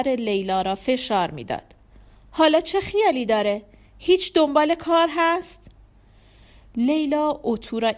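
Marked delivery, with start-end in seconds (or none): 2.3-5.6 higher-pitched, nagging mother's questions; disapproving interrogation. A narrator's reading. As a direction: press her with pointed disapproval. Mother grills daughter about husband.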